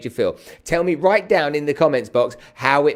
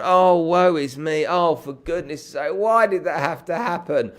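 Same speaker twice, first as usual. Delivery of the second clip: mock self-pity; 3 semitones higher, slower than usual. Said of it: "You've sat there and gone".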